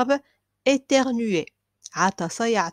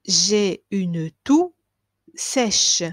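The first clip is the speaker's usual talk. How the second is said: slow model phrase; 4 dB louder, much slower than usual. Shown as a demonstration. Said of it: "teacher models slow phrase".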